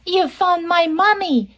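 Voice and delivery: high, happy little-fish voice; grateful baby fish. Acted. Baby fish is reunited with its mommy, grateful baby fish. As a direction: lift it high with storybook delight. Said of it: "the baby fish says".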